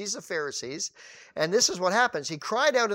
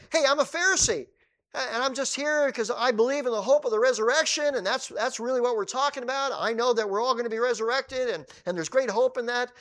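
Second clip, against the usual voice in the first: higher, louder eager claim; eager proclamation; 6 semitones higher, 3 dB louder than usual. Acted. Paul calling out to the council, eager and raised. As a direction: announce it to win the room over.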